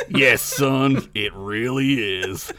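low, slow, weary; gruff stranger. Acted. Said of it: "the stranger said".

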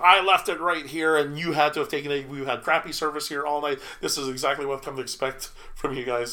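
mock irate patron, a bit loud; hammed-up complaint, pressing the accusation; irate customer. Patron accusing server of stealing cell phone, irate. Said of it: "just being really loud".

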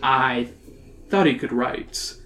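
understated, slow irritation; a touch of slow impatience; irritable. Acted. Mister Scully turning to Emily, mildly irritable. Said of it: "says irritably".

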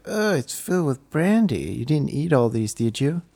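acted surprise. Friend tasting the bride's brandy chocolates, acted surprise. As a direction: play a friend taken aback.

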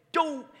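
high-pitched yelp of dismay; mock-dismayed, high yelp; dismayed exclamation. Pastor reacting to the missed PowerPoint, dismayed.

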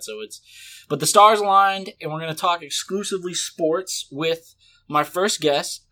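upbeat announcer opening the show; podcast host intro. Acted. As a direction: welcome listeners like a radio host.

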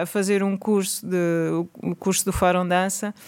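ordinary delivery

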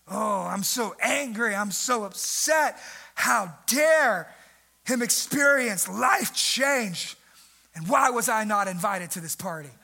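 slow, hammed-up outrage; mock indignant grumble. Preacher mocks religious people offended by Levi's party, slow indignation. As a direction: ham up the offended Pharisee.

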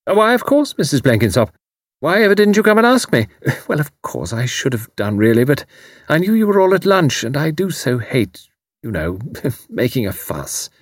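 sweet on top, edged underneath; sharp hostess. A narrator's reading. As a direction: brittle courtesy with nervous laughs. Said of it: "a sharpness in her voice".

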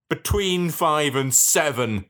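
slow, seething reply. Acted. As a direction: spit it back through your teeth. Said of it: "seethes Todd Heidelbauer".

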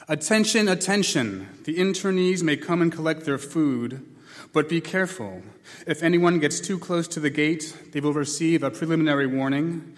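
stern voice over a loudspeaker; a cold camp announcer barking orders; loudspeaker announcement. Acted. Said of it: "the voice finally came over the loudspeaker".

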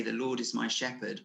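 soft, gentle and soothing. Shown as a demonstration. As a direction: say it softly, like comfort. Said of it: "a nice soothing way".

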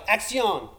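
a mild shouted call to start; mock yell. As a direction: call action like a director, lightly. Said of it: "Victor yelled".

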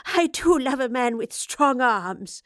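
a touch out of breath, slow and teasing; mild panting. Acted. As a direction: flirt while a little winded. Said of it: "she panted".

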